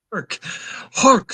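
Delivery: mock very high, loud, full-throated holler. Quoting a Willem Dafoe scene and acting out his line: Willem Dafoe impression, mock yelling. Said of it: "You ye- you yelled so bad it it muted it".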